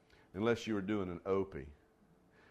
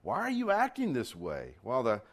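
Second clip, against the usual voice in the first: measured, declaiming Bible reading; solemn public Bible reading; scripture reading. Acted. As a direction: read God's word with weight. Reads scripture aloud.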